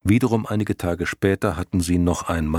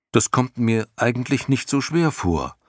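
put-on carefree boy voice; 5 semitones higher than usual. Bastian, light-hearted.

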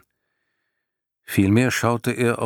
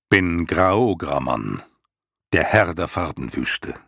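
rumbling lion voice. Acted. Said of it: "grollende Stimme".

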